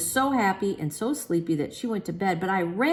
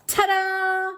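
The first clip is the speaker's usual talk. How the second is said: higher, bright reveal; a higher showman's ta-da; 14 semitones higher, 5 dB louder than usual. A narrator's reading. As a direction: present it with a flourish. Grand reveal of the baby.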